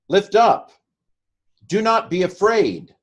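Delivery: soaring, loud proclamation; proclaimed. Shown as a demonstration. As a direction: ring it out like a herald. Declaiming translated verse.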